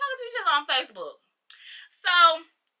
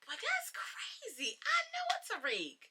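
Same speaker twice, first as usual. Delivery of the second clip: whispered suspicion; 9 semitones higher, 15 dB quieter than usual. Retold or imitated.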